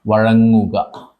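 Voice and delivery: very slow, stretched "വഴങ്ങുക"; drawn out. Shown as a demonstration. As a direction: stretch "വഴങ്ങുക" very slowly, syllable by syllable. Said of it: "repeated drawn out for dictation".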